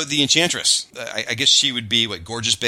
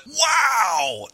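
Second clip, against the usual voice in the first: wow; 10 semitones higher than usual. Real, not acted. Excited reaction to character.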